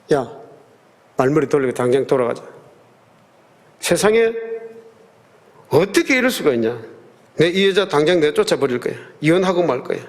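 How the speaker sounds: angry father. Retold or imitated. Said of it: "막 그러면서 화를 내는 겁니다".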